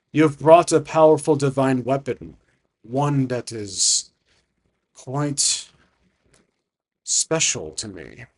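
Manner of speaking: slow, weighty dragon pronouncement; ancient dragon. Acted. Dragon to adventurer about the divine weapon, slow and weighty. Game master voices the dragon.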